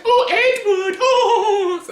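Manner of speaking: a gleeful vampire leader hamming it up; over-the-top Aro. Retold or imitated. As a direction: camp it up, giggling with glee. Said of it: "He's like".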